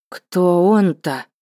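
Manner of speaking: usual speaking voice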